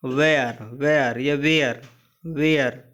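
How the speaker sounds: वेयर said slowly as "wair" with a falling end; pronunciation demo. Shown as a demonstration. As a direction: model वेयर slowly, syllable by syllable. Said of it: "जैसे कि वेयर". (वेयर को धीमे, साफ़ उच्चारण में बोलना)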